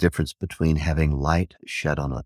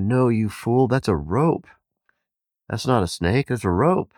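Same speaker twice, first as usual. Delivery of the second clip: higher, louder scolding cry; exasperated shout; 8 semitones higher, 4 dB louder than usual. Retold or imitated. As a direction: snap at him as a fool. Villagers scolding the yogi.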